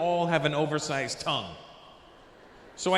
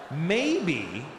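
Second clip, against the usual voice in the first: Indian accent. Shown as a demonstration. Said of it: "we sounded like this".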